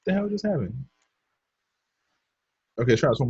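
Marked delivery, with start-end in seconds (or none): 0.1-0.9 higher pitched, softer, baffled at the screen; startled disbelief. Real, not acted. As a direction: react to the glitch in real surprise. Software glitch surprises the streamer.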